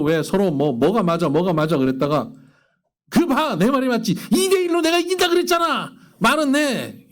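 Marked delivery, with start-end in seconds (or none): 3.1-7.1 high, triumphant told-you-so; a spouse smugly claiming victory, voice pitched high; gloating spouse. Retold or imitated. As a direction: crow over winning the argument. Spouse gloats after winning argument.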